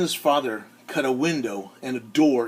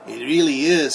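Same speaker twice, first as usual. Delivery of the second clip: put-on excited girl; 6 dB louder than usual. A narrator's reading. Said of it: "said Christina".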